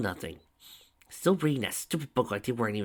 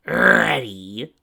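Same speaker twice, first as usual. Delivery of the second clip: eager call; 2 semitones higher, 11 dB louder than usual. A narrator's reading. Tracy checks before the scare.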